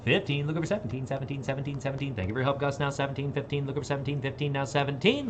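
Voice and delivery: rhythmic auction chant; auctioneer. Acted. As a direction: rattle off the bids.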